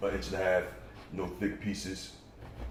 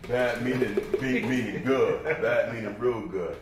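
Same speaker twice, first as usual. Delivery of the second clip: slow, emphatic, louder punch on good; stress on good; 3 semitones higher, 4 dB louder, slower than usual. Shown as a demonstration. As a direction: spell it out slowly, bad meaning good. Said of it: "Does that bad meaning good".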